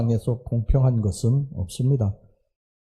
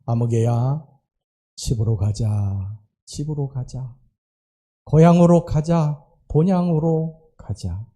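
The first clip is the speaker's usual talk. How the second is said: God calling softly; slower than usual. Retold or imitated. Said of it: "하나님이 부르는".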